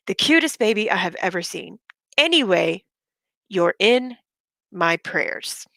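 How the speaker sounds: deliberate, theatrical read-out; dramatic reading. Shown as a demonstration. Reading her rival's message aloud to viewers, dramatically. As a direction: lean on phrases as if reciting melodrama. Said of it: "I'm going to be reading it dramatically".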